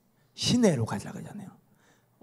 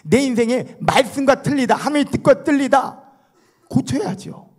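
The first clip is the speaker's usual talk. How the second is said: emphatic preaching; 9 semitones higher, 5 dB louder than usual. Acted. Preacher driving the point home.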